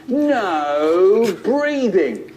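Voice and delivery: loud, high, drawn-out order from a strict teacher. Acted. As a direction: stretch it out slowly like a fearsome teacher. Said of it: "We had a teacher who was so strict".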